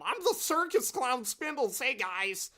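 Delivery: high, goofy Daffy Duck-ish clown; squawky cartoon clown voice; silly clown voice. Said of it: "That's his voice".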